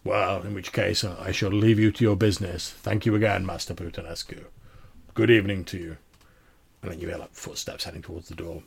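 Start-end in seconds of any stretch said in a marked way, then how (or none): 0.0-6.0 loud, grand baron; big, formal farewell in character; deep-voiced man. Baron taking leave of the tailor, grand deep-voiced man. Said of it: "this deep-voiced man".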